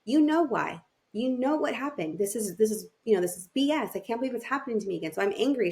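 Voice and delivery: retold exasperation, starting high and settling; frustrated. Mother arguing back when her friend asks why she's angry, frustrated. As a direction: replay a mildly heated, frustrated comeback. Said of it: "telling her that I was frustrated".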